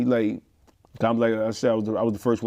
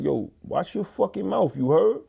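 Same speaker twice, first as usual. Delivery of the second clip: threatening warning; 5 semitones higher, slower than usual. Retold or imitated. Threatening a man on the bus.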